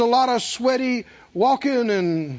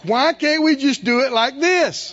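slower, louder laughing mockery; mock whine, laughing; 4 semitones higher, 4 dB louder than usual. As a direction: laugh while mimicking the complaint. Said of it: "how many times Phyllis and I have heard this".

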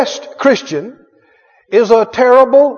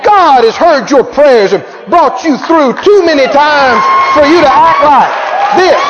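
scolding yourself; 3 semitones higher than usual. Acted. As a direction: tell yourself off, half laughing. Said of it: "What we say today?".

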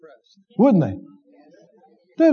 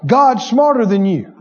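mock shout; 3 semitones higher, 3 dB louder than usual. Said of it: "You say".

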